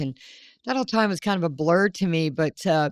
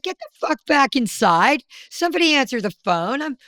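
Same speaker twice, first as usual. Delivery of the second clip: bossy order; 4 semitones higher than usual. Retold or imitated. Retold order to staff.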